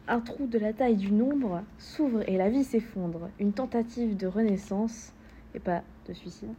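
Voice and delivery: measured poem recitation; spoken verse with held phrase endings; poem reading. Acted. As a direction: recite it line by line, letting the end fall away. Reads a poem aloud.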